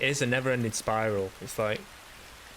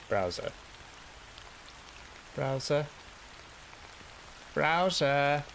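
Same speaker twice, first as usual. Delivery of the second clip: repeating a command; 5 semitones higher, 3 dB quieter, slower than usual. Real, not acted. Calling a voice command at computer.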